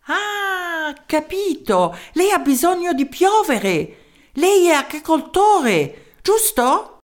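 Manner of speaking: put-on high, slow little voice with a German accent; a tiny German professor in broken Italian; small German-accented voice. Professor answering the mayor's call, small German-accented voice. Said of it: "Una vocina dal tipico accento tedesco".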